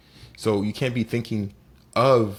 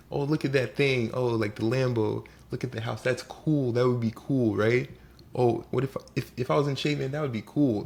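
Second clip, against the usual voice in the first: lightly mocking wishful wonder; mock daydreaming; 3 semitones higher than usual. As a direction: imitate someone idly wishing for nice things. Imitates idle daydreamer admiring luxuries.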